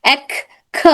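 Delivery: breathy burst on کھ after اک; airy k demo. Shown as a demonstration. Teacher showing airflow in کھ. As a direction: push air out on کھ. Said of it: "اس میں اک".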